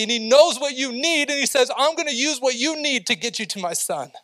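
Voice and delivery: high, loud preacher's climb; impassioned preaching. Acted. Preacher to his congregation about God's pull, impassioned and high. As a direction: drive the message home to the congregation. Preacher rising to full force.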